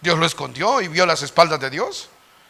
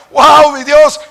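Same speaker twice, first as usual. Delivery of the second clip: awed wow; 10 semitones higher, 11 dB louder, much slower than usual. Acted. Moses amazed at promised land.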